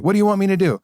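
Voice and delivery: high-pitched, pleading cry for guidance; desperate plea. Retold or imitated. Begging the ayahuasca voice on a hard night, high desperate plea.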